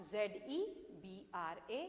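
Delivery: letters dictated very slowly; slow spelling. Shown as a demonstration. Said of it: "इसके बाद". (धीरे धीरे अक्षर बोलना)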